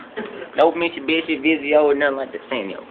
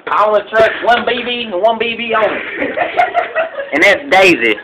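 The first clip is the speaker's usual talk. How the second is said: proud chuckle; 5 semitones higher than usual. Acted. Proud of his BB gun.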